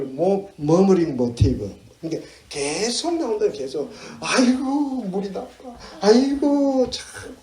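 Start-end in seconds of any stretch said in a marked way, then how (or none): 4.2-7.4 high mock moan; fault-finding. Picky eater gripes about bad water, exasperated moan. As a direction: sigh out a picky complaint. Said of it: "참 먹는 거 타박 많이 하죠".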